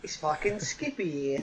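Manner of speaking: put-on slow, drawn-out dodgy Australian accent; botched Australian. Guest having a go at an Australian, botched slow accent. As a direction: part Australian, part something entirely different. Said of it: "That sounds like one part Australian, one part something entirely different".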